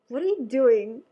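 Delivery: laughing through the words, embarrassed at herself. Real, not acted. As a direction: giggle it out, feeling silly. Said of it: "And I felt so silly".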